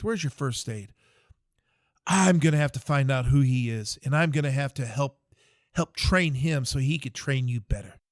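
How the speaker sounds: the captain berates the private in the hole, in a loud exasperated rant. Retold or imitated. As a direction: chew him out like a fed-up officer.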